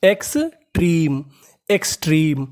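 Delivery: slow careful word. Shown as a demonstration. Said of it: "तो meaning बनी".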